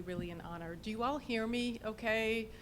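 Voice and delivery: normal talking voice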